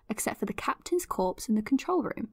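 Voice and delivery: breathy spooky whisper; a creepy whispered reveal; whispered detail. Acted. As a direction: hush it like a ghost story. Gruesome detail told hushed.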